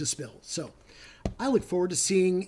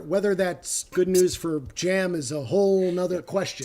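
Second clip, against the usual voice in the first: teacher voice. Real, not acted. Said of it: "Take it down a notch".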